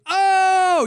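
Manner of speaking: a high, amazed oh; high mock gasp of surprise; imitated surprise. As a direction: squeal it out like a hyped fan. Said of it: "and we were all like".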